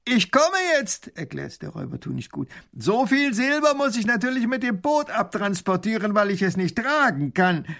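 boastful robber. A narrator's reading. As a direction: sneer at the puny ruler like a cocky bandit. (frecher Räuber mit hoher, höhnischer Stimme)

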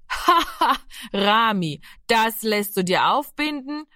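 a high mocking laugh, then scornful. A narrator's reading. Big brother Giro scoffs at Rami, mocking laugh. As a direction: laugh the little brother's belief away. Giro mocks Rami's faith.

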